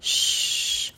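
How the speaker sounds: "Sh" as a long, voiceless rush of air; round-lipped SH. Shown as a demonstration. Teacher showing learners the mouth shape, round-lipped "Sh". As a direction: shape rounded lips and hold "Sh". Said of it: "phải khẩu hình tròn miệng".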